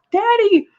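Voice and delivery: high, sharp cry of alarm for her father; a daughter shrieking at the sight; shocked cry. Retold or imitated. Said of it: "she's immediately like".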